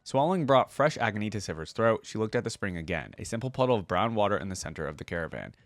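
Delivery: steady storyteller read of legend lore; story narration. Acted. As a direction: read it like an epic tale to viewers. Reading the short story aloud.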